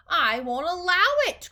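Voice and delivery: high, loud refusal; cried out. A narrator's reading. Wonka refuses to permit the fudge, cried out. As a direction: declare it forcefully. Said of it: "cried Mister Wonka".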